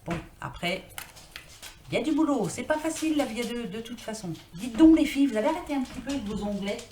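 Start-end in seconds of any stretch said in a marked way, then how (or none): 4.5-6.8 gronderie mi-amusée, plus forte et plus aiguë; gronder les chats. Real, not acted. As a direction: sermonne les chattes qui font leurs griffes. Gronde gentiment ses chats. (gronde ses chattes, voix haute et forte)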